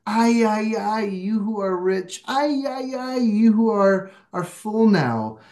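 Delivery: high lamenting cry of ay, ay, ay. Shown as a demonstration. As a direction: sigh out ay, ay, ay with sad empathy. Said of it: "one of the Spanish translations that I have is".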